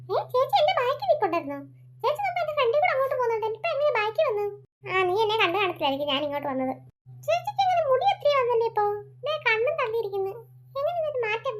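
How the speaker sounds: put-on a small boy chatting with his sister; little boy. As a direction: play the little brother. Boy voice puzzled.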